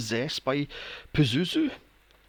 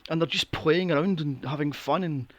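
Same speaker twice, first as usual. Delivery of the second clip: quiet aside; 5 dB quieter than usual. Retold or imitated. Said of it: "I says to William".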